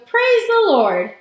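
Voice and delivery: high, loud, drawn-out cry; jubilant yell. A narrator's reading. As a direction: cry it out slowly in joyful thanks. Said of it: "yelled Grandpa Joe".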